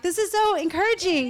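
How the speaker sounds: high, loud burst of delight; gushing enthusiasm. Retold or imitated. Wife retelling her delight at hanging out with people, gushing.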